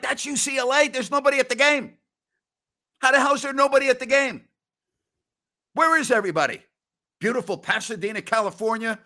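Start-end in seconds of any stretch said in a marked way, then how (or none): 0.0-6.6 higher, incredulous, speeding up on the last question; acting baffled at an empty stadium; mock disbelief. Host mocking empty seats at UCLA games, incredulous. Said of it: "I'm like".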